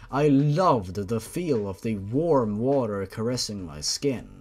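steady audiobook narration of a grim tale; story narration. A narrator's reading. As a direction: read it like a dark bedtime story. Reads fanfiction chapter aloud.

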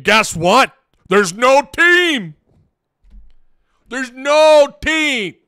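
put-on high, loud, drawn-out Italian accent; hammed-up Italian coach crying out in exasperation. Streamer has fun playing Calipari in the locker room, loud Italian accent. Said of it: "I love doing the Italian accent".

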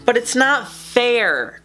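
whiny protest. Acted. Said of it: "cried Little Blue".

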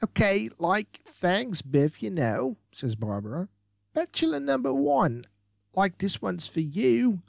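lightly voiced ditzy valley girl. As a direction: play a bubbly airhead, lightly. Voices Barbara in game text.

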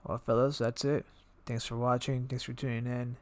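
speaking with a muffled voice. Real, not acted. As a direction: talk as if through a muffled mic. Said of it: "listening to my muffled voice".

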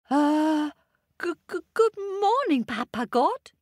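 high, fast stammering monkey voice; nervous monkey. A narrator's reading. Little Monkey nervously greeting Papa God. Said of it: "said Monkey".

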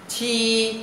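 "chi" with a puff of air, held high and level; aspirated sound. Shown as a demonstration. Teacher introduces the hard-to-read letter, aspirated sound. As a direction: push air through the teeth on "chi". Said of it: "Rất khó phải không?".

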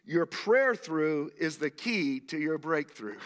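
slow and weighty, leaning on prayer; slow emphatic statement. Shown as a demonstration. Preacher stating his key line slowly to the congregation. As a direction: lay the line down deliberately so it sinks in. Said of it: "Let me say that again".

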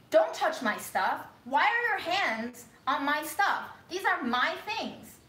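slow, loud, high possessive scolding; angry grandma. Retold or imitated. Grandma scolding granddaughter for touching her stuff, slow and loud. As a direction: imitate grandma guarding her things. Grandma snatching medallions back.

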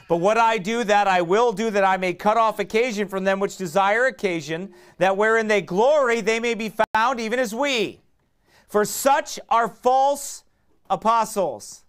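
loud, high, fervent preaching of the verse; preaching scripture. Acted. Preacher reading Second Corinthians to the church, loud fervent proclaiming. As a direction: proclaim it to the congregation.

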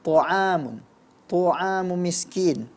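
TA'AMU MISKIN with the first vowel rounded towards o; fathah near dhammah. Shown as a demonstration. Quran teacher imitating a common slip, rounded vowel. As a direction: round TA into TO, drawn out slowly. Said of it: "kedengaran dibaca mendekati dhammah".

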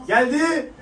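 sudden high burst as the ball comes; yelling at the screen as the chance arrives; excited shout. Real, not acted. Fan watching the match yells in excitement.

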